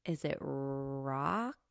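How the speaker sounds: unsure whisper, slow, voice dropped low; whispered guess. Real, not acted. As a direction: breathe the guess out hesitantly. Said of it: "whispered guess".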